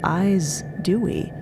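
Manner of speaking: normal talking voice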